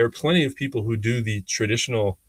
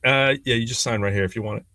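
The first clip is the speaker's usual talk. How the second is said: half-hearted pitch. Retold or imitated. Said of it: "That was, like, my pitch".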